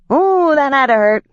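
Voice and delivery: high, loud gleeful pixie voice; gleeful pixie cry. A narrator's reading. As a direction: crow it out like a delighted little pixie. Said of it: "the pixie cried".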